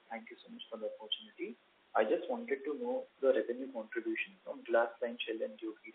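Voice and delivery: faint, far-off voice on a weak line; speaking too softly to be heard; barely audible. Real, not acted. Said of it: "Your voice is very low".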